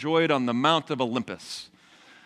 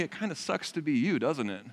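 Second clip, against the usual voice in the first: softer, mock-kind sympathy; sweetly and kindly; 6 dB quieter than usual. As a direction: gently deliver a backhanded consolation. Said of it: "kind of sweetly and kindly".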